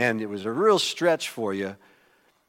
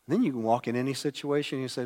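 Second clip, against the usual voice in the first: usual speaking voice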